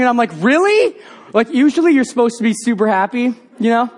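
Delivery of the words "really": very high rising question; comic disbelief, pitched way up; retold astonished double-take; incredulous. Leader doubts girl's sudden conversion.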